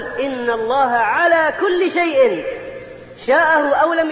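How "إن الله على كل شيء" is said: كل stretched and stressed, phrase said slowly. Shown as a demonstration. Preacher teaching the right phrase, weight on كل. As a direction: lean hard on كل. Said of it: "وإنما ماذا نقول؟".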